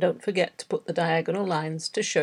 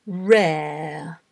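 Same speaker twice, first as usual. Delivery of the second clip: long drawn-out word, carefully dictated; slow dictation; much slower than usual. Shown as a demonstration. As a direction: stretch the word out for learners writing it down. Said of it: "read ten words aloud slowly".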